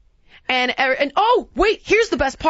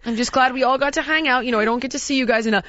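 mock Canadian niceness; much faster than usual. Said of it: "another typical Canadian".

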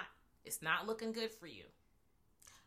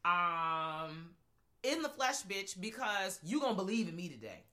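Candyman voice; 2 semitones lower than usual. Retold or imitated. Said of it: "And was just like".

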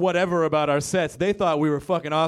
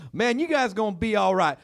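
higher, earnest southern fan voice; sincere Texan fan; 8 semitones higher than usual. Retold or imitated. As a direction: play the well-meaning redneck giving advice. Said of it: "He was like".

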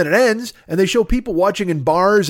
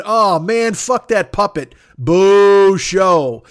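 mocking fan jeers; 3 semitones higher, 6 dB louder, much slower than usual. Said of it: "people going".

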